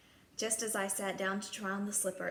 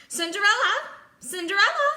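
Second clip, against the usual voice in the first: loud, high call up the stairs; 12 semitones higher, 13 dB louder than usual. Acted. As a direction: shout her name from below. Stepmother calling from downstairs.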